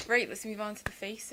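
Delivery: put-on "Right" said as "rate" in a jokey accent; playful accent with "Right" like "rate". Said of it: "can't stop doing this freaking accent".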